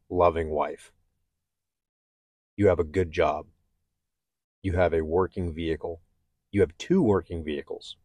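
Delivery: soft, steady pep talk to himself; self-encouragement. Retold or imitated. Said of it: "started talking to myself physically, out loud".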